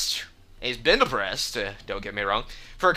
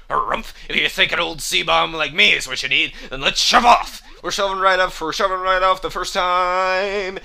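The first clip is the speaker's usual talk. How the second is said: put-on raised, hearty old sailor voice, building to a high cry; rally the crew like a blustering seaman; blustery seafarer, rising in excitement; gung-ho old sea salt; 7 semitones higher, 4 dB louder than usual.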